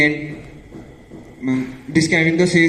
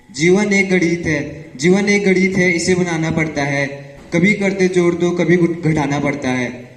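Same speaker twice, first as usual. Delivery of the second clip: poem recitation; much faster than usual. Acted.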